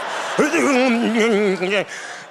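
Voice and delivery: high, wheezy stifled breathing; acted squeaky breath that passes for crying; strained fake sob. Man hiding his need to breathe, high mock-sob wheeze. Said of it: "She think I'm crying".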